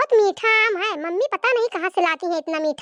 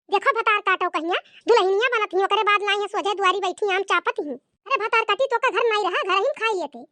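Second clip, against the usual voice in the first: scolding mother-in-law. Acted. Mother-in-law scolding her daughter-in-law, lightly voiced. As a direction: play the nagging village saas.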